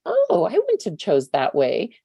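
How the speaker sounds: slow, lightly voiced disapproving mother-in-law; a hint of a judgmental mother-in-law, slowly. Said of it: "That's my mother-in-law".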